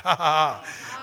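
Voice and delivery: short, deliberate "ha ha ha"; forced laugh of faith. Shown as a demonstration. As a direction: laugh on purpose, briefly. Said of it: "why don't you just laugh at it".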